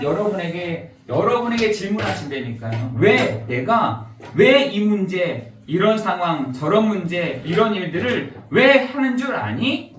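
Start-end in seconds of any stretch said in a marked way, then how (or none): 3.0-9.9 slow, weighty divine questions, drawn out; God questioning slowly. Acted. Preacher voicing God's slow, probing questions to the congregation. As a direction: ask each word slowly like God pressing a point. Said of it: "라고 하나님은 우리에게 다시 질문해".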